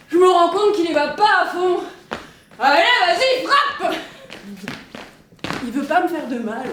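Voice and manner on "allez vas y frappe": high eager cry; excited shout. Acted. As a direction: egg him on, pitched up. Urging brother to hit.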